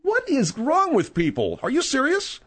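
high character voice. Acted. The speaker plays a different caller.

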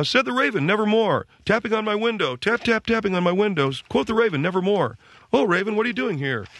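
high, sing-song mock teen reading of a poem; teenager reading a poem. Dad imitates his son reading The Raven, high and sing-song. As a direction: ham up a bored teenager reciting. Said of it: "he's reading it like a teenager".

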